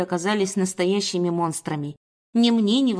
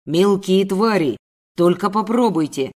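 angry yell; 5 dB louder than usual. Acted. Man about to be bitten, angry yell. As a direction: drag out the threat, loudly. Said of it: "мужчина заорал".

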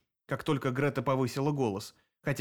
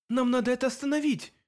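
high, urgent cry; exclaiming; 10 semitones higher, 3 dB louder than usual. A narrator's reading. Narrator exclaims to Sep, urgent and high. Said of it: "воскликнула я".

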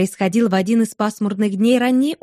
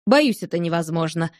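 firm; 4 semitones lower than usual. Acted. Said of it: "твёрдо произнёс Кредок".

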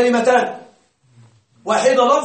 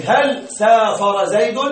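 هل سافر زيد drawn out, stressing هل, rising at the end; slow question tune; slower than usual. Shown as a demonstration. Teacher acts the student asking slowly, rising at the end. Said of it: "أنت تسألني".

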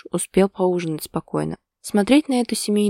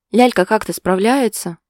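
выплюнула; 2 semitones higher, 6 dB louder than usual. A narrator's reading. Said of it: "выплюнула Лена".

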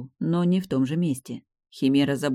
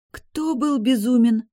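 hissed through teeth; 9 semitones higher, 5 dB louder, slower than usual. A narrator's reading. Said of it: "сквозь зубы прошипела я".

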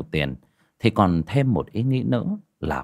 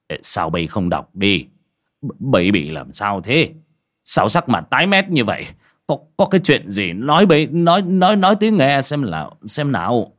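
lightly voiced father, stammering, rising louder to urgent; anxious old father; 2 semitones higher, 5 dB louder than usual. Alarmed father pressing his pale daughter to speak, stammering and urgent. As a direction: push her to speak, more worried each word.

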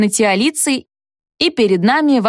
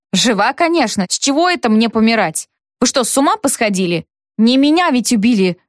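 ordinary delivery, nothing marked

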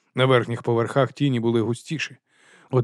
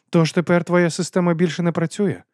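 higher, cool ironic question; Patrician's voice; 6 semitones higher than usual. A narrator's reading. Патрицій до Вонса, холодно-іронічно. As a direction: needle him with icy calm.

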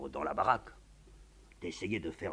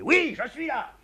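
higher, impatient answer; exasperated; 11 dB louder, slower than usual. Acted. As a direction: answer without moving, fed up. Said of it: "répond exaspéré".

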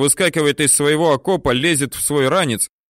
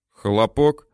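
ordinary delivery

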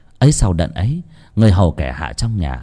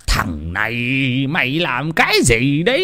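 howling; 4 semitones higher than usual. Acted. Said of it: "Lão rú lên".

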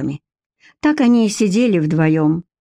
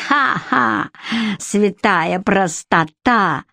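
gleeful yell; much slower than usual. Acted. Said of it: "ликующе завопила Черткова".

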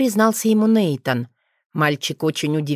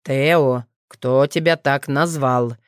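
slower, gentler father's question; gentle, lower repeat of the question; softer; 3 semitones lower, slower than usual. Acted. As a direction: coax the answer out of the boy. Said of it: "мягче повторил вопрос".

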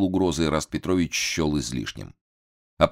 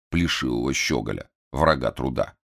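usual speaking voice

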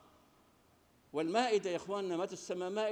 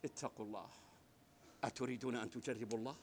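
gentle rebuke; 6 semitones lower, 10 dB quieter, faster than usual. Retold or imitated. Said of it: "سيدنا عيسى بلطفه وأنسه".

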